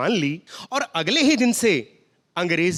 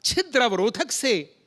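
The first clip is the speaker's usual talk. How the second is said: formal pure hindi. Retold or imitated. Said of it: "शुद्ध हिंदी में मैंने बताया".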